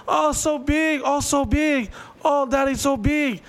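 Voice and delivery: high-pitched mock moan. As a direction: overplay a squeaky bedroom cry.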